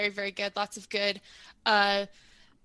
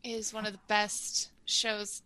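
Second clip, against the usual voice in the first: whisper; 8 dB quieter, slower than usual. Real, not acted. Gushing aside to friends.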